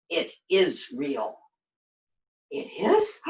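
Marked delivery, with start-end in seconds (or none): 2.5-3.3 high, cried-out "It is?" then a gasp; startled cry. Acted. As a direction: yelp it high, then catch your breath. Startled that the jewel is real.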